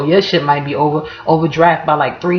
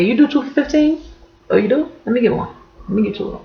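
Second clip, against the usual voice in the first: eager customer; 5 semitones higher, 4 dB quieter, faster than usual. Retold or imitated.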